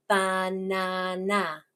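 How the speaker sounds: "Banana" very slow, in three level beats; syllable segmenting. Shown as a demonstration. Teacher shows child the claps, "Banana" slowly split. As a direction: clap out "Banana" as ba, na, na. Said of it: "How many claps did I give?".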